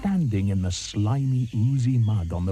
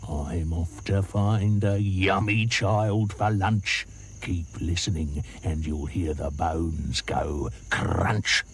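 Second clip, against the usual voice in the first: slow, menacing, lower at the end; grinning croc; 4 semitones lower, much slower than usual. Acted. Crocodile grins and threatens to the elephant, slow and menacing. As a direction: relish the crunch, slowly. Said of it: "grinned up at Trunky and said".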